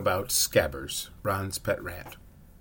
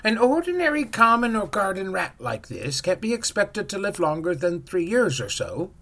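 high, odd-toned witch; 9 semitones higher, 4 dB louder than usual. A narrator's reading. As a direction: lecture as a higher shopkeeper witch. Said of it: "said the witch".

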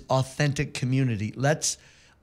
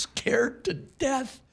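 soft whisper; 10 semitones higher, 4 dB quieter, much slower than usual. Real, not acted. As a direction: drop to a whisper. Whispered aside about fear.

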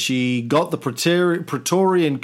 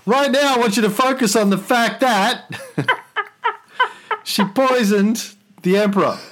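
high, grand emperor voice breaking into laughter; roman orator; 8 semitones higher than usual. Acted. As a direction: proclaim it to the Senate, laughing. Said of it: "Senate and the people of Rome".

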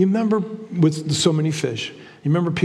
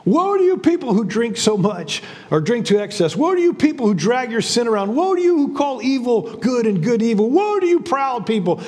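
rising prophetic cries, pitched higher with each woe; prophet's denunciations; 5 semitones higher than usual. Retold or imitated. Isaiah pronouncing woes on the people, higher and insistent. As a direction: thunder each woe like an Old Testament prophet. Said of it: "Isaiah says".

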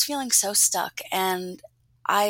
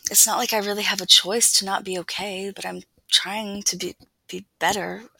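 halting, repeated start; stuttering; 4 dB louder than usual. Acted. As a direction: stumble over the words. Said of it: "I stutter".

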